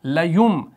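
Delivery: लयुम closed on a clear m; pronunciation demo. Shown as a demonstration. Teacher shows learners the sound, m ending लयुम. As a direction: end लयुम on the lips with m, not n. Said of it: "इसका तलफ़ुज़ ऐसे होगा".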